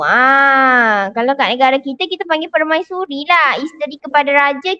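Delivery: ordinary delivery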